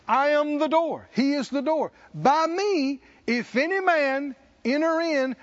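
full-voiced preaching; high proclamation. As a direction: lift it high over the crowd.

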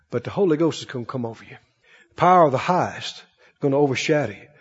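a hint of an angel's hush; low hushed angel. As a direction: speak it like a gentle heavenly messenger. Angel's reply.

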